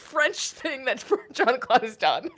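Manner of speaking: laughing. Real, not acted. Laughing at the speech.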